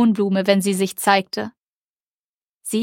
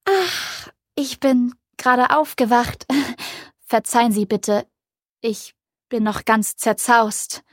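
yawning; 2 semitones higher than usual. Acted. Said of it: "sagte sie gähnend".

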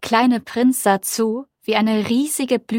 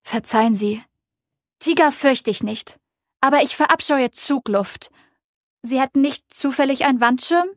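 lightly voiced, slightly higher fussy flower; vain flower; 4 semitones higher than usual. The vain flower asks the little prince for a screen, fussy and higher. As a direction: play the prim, demanding flower.

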